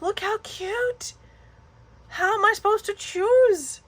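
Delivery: high squealing delight at the paper; cooing delight. Real, not acted. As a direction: coo like you just saw a kitten. Gushing over cute paper.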